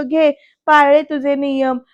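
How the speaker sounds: slow, mildly sarcastic jab; retold taunt. Vidyadhar jeering about the house rules, retold taunt. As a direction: toss it out as a mock concession. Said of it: "टोमणा सुद्धा मारतो इथे".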